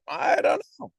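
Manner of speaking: high whiny I don't know; mock clueless shrug; mimicking people. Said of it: "hear a lot of people say".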